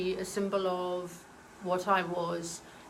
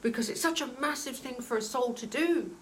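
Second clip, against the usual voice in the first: getting emotional; 4 semitones higher than usual. Real, not acted. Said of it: "I'm getting emotional again".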